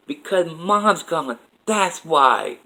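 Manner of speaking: put-on a child's voice, choked up, answering his dad; tearful child's answer. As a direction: plead it through tears as the young son. Crying boy answers his father.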